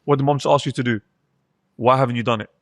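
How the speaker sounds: understated parental sternness; stern voice. Shown as a demonstration. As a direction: tell a child off firmly without shouting. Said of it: "I just change to a stern voice".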